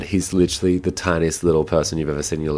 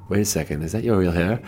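gushing, much higher as the words go on; mock amazement; 10 semitones higher, 3 dB louder than usual. Fans gushing at drag performer about her crimped hair, squealing. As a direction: play a stunned fan gasping over the hair. People mistaking wig for real.

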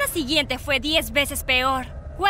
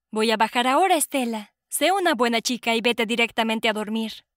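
sweetly stern mother; 3 semitones lower than usual. Acted. Mother ties daughter for night.

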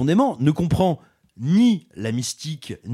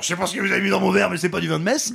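mock tipsy priest; 2 semitones higher, much faster than usual. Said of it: "il fait genre".

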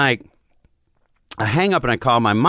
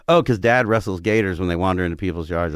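casual, lower-pitched imitation of the siblings; matter-of-fact; 4 semitones lower than usual. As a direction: toss it off as the most normal thing. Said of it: "acted like this was the most normal thing".

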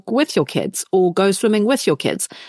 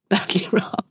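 wheezy, chesty voice. Real, not acted. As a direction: talk through a lingering cough. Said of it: "which is why I sound so wheezy".

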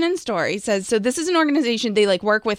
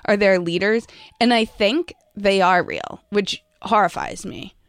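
vocal fry. Real, not acted. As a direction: let the voice crackle into fry. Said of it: "rocking the vocal fry today".

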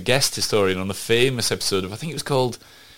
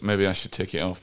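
muffled behind a mask; talking through a mask; through a face mask; 4 dB quieter than usual. Real, not acted. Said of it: "a little bit more muffled".

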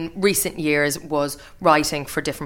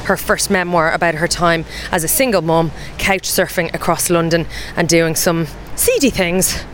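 podcast host intro. Acted. Host reads show intro.

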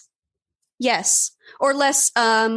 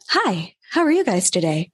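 bright, cheery service greeting; customer service voice. Retold or imitated. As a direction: greet like a chirpy shop clerk. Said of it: "customer service voice".

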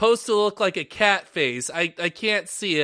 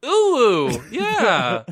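louder, higher weeb squeal; anime weeb noise; 5 semitones higher, 6 dB louder than usual. Acted. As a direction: coo like an excited anime fan. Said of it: "Is it ooh-oo?".

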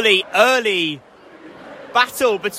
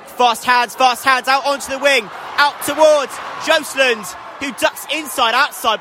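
higher pitch as the attack runs; excited play-by-play; 4 semitones higher than usual. Real, not acted. Commentator follows fast hands out to the wing, excited. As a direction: follow the fast break with rising urgency. Live call of Exeter attack.

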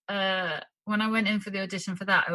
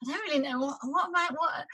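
higher-pitched mock bewilderment; flustered; 8 semitones higher than usual. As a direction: imitate being lost and flustered, voice lifted high. Acting out self-tape confusion.

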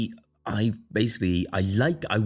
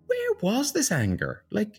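high, drawn-out baffled question; retold bewilderment, pitched right up; incredulous; slower than usual. Driver asks herself where this anger was, incredulous. Retelling shock at own road rage.

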